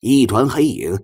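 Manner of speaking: ordinary delivery, nothing marked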